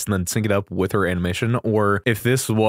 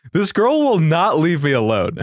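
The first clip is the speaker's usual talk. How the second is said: higher, hammed-up exasperated complaint; mock exasperation; 4 semitones higher, 3 dB louder than usual. Gamer ranting about a character who keeps turning up, mock exasperation. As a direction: complain in mock outrage, pitched up. Mock grievance over game pulls.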